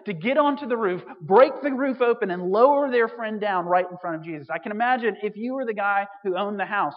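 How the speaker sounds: ordinary delivery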